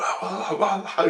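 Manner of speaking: high breathless babble, imitated; mock breathless jabbering; out of breath. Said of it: "He's like, out of breath".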